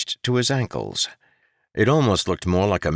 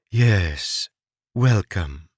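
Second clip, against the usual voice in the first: kind voice; 3 semitones higher, much slower than usual. A narrator's reading. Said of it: "her voice kind".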